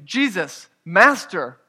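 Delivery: preacher's understated version of crying out; retold crying out. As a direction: call out for mercy, mildly. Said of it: "lifted up their voices and saying".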